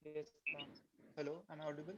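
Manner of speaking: very faint, distant voice; almost lost, far from the mic; barely audible. Real, not acted. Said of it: "Sir, I think little louder".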